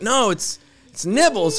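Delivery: high-pitched mock frustration; getting mad. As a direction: imitate an exasperated man correcting someone. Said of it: "He's, like, getting mad".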